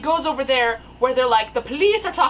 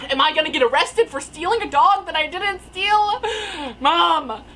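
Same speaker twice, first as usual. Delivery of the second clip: mock panicked pleading; 4 semitones higher, 5 dB louder than usual. Retold panicked question to mom.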